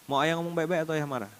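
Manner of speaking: understated fatherly ultimatum; calm father's warning. Retold or imitated. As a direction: quietly offer the child a choice. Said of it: "Saya bilang".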